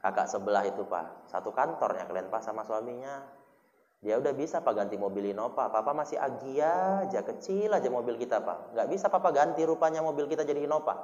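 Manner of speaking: soft, wheedling wifely murmur; wife whispering. Retold or imitated. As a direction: coax the husband quietly. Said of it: "Daripada nanti bisik-bisik".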